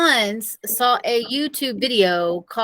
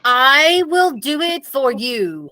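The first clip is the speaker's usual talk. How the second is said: slow, louder exclamation of a sudden idea; exclaimed; 3 semitones higher, 4 dB louder, slower than usual. Acted. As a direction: blurt out the plan with conviction. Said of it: "I exclaimed".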